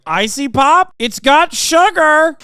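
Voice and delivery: high, loud mocking squeal; hammed-up mock outrage, high and loud; mock DeSantis. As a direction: parody him shrieking about sugar. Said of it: "you were like".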